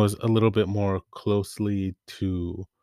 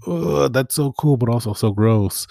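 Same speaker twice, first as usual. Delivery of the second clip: excited disgust; 4 semitones higher, 3 dB louder than usual. Retold or imitated. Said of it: "And I'm like".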